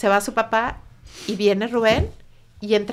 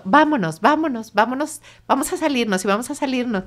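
retold insistent urging, higher; urgent; 4 semitones higher than usual. Upset son pushing mother and brother to leave, urgent. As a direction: repeat it as a pressing demand to go.

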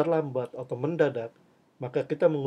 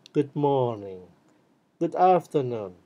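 bored, tired greeting. Shown as a demonstration. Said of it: "So don't say".

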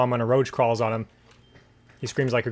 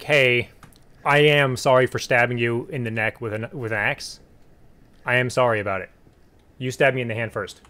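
apologetic; 5 semitones lower than usual. Pretend. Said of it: "just try talking to her".

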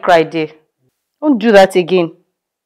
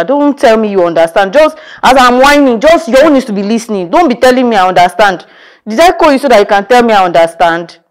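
annoyed. Acted. Angry at friend on phone.

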